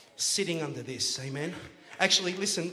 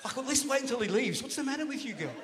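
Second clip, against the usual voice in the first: louder, half-laughing mock scolding; mock Abraham scolding; 3 semitones higher, 4 dB louder, faster than usual. Abraham hushing Sarah in front of God, loud laughing scold. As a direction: playfully tell off a wife who won't stop laughing. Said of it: "Abraham confronts her and says".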